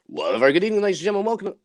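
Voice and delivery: lightly voiced grand host opening; Jeremy Clarkson growl. Presenter opening the evening in a light Clarkson-style welcome. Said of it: "that kind of Jeremy Clarkson type growl".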